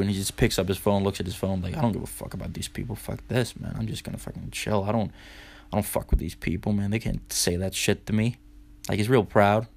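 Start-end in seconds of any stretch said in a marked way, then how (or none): 1.8-8.4 dismissive grumble. Retold or imitated. Buddy muttering dismissively.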